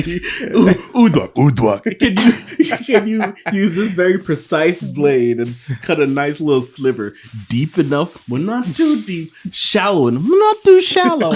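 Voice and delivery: high, loud, laughing through the instructions; laughing mock request. Friend retelling a knife request, laughing throughout. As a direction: ask fussily while cracking up. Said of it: "he's basically".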